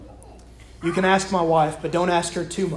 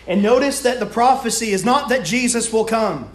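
emphatic, higher-pitched sermon delivery; preaching; 4 semitones higher than usual. Real, not acted. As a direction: drive each point home to the congregation. Preaches with insistent force.

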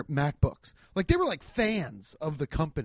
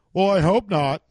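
unfunny joker; 5 dB louder than usual. Retold or imitated. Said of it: "one dude ... to clown it".

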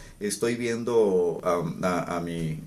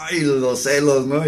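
laughing sigh; 6 semitones higher, 6 dB louder than usual. Retold or imitated. Girlfriend laughing it off.

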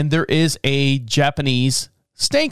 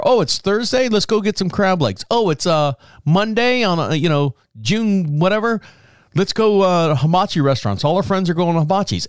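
higher, bright suggestion of a treat; hammed-up eager planning voice; eager mock proposal; 5 semitones higher than usual. To his girlfriend, proposing outings in a high eager voice. Quoting their old dating plans.

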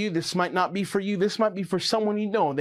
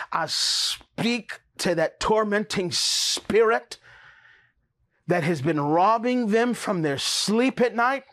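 forceful preaching prayer; slower than usual. Acted. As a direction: cast it out with full force. Rebukes spirit, speaks in tongues.

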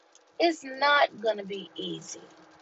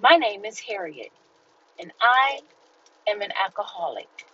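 recited meeting confession; 3 semitones lower than usual. Retold or imitated. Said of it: "they're taught to say".

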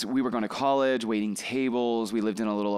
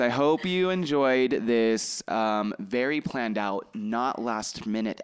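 sarcastic; slower than usual. Acted. Jokes about an unplanned episode.

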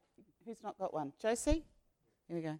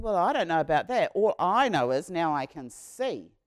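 firm loud reply; 10 dB louder than usual. Acted. Healed man answers leaders.

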